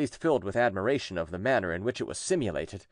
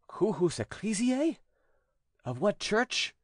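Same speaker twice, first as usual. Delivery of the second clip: higher, slow solemn questioning; exorcist priest; 11 semitones higher, slower than usual. A narrator's reading. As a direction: press the demon for a name. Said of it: "he asked the following questions".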